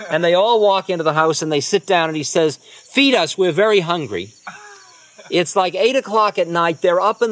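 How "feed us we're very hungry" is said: hearty demand. Retold or imitated. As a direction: boom it out to the hosts. Guru demanding food loudly.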